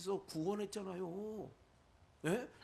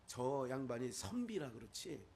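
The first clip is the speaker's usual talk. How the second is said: mild-mannered scholar; 7 semitones lower, 4 dB quieter than usual. Retold or imitated. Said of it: "저 양반은 아주 선비예요".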